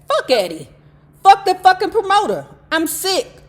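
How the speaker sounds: loud, fast, high angry rant; angry outburst. Retold or imitated. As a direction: spit it out furious.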